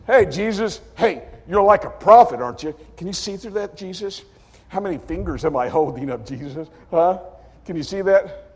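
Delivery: high, teasing jeer; mocking soldiers. Soldiers jeer at blindfolded Jesus, high and teasing. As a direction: taunt the blindfolded man. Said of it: "they said to Jesus".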